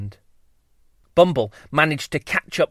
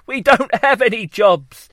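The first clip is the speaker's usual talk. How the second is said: lazy drone bee; 6 semitones higher, 4 dB louder than usual. Acted.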